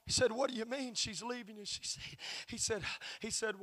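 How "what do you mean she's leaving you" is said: much softer, retold pastor's question; calm questioning. Pastor questions bawling husband, soft and calm. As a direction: drop the volume and ask calmly.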